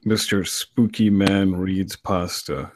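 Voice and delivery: slow, drawn-out spooky title read; deep narrator voice. Shown as a demonstration. Narrator showing admiring friends his show title, deep slow voice. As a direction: announce it slowly in a showy deep voice. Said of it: "deep voice".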